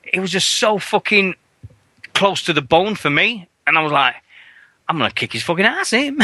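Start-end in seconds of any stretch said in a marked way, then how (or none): 4.9-6.2 laughing threat. Retold or imitated. Laughing at his own threat.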